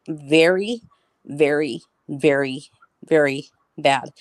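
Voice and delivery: each "very" set apart by a pause; retold emphatic repetition. Retelling her exact words about the hurt boy, slow and emphatic. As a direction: stretch every "very" slowly and separately. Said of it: "she said this exactly to me".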